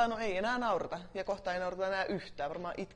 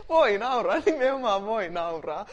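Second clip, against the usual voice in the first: louder; 3 semitones higher, 10 dB louder than usual. Real, not acted. Declaring laughter allowed.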